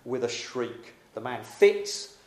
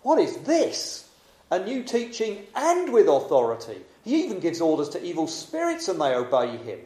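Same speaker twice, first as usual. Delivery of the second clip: amazed; 4 semitones higher, 3 dB louder than usual. Acted. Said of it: "The people were so amazed".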